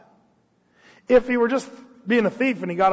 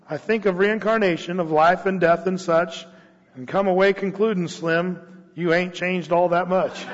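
cowboy poetry. Acted. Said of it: "This is a cowboy poem about reincarnation".

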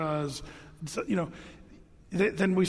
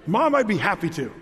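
polite cheerful reply; 3 dB louder than usual. Shown as a demonstration. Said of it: "He'd just demonstrate".

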